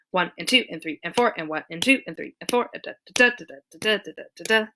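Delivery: the count fast and swung; swing count. Shown as a demonstration. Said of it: "instead of one and two".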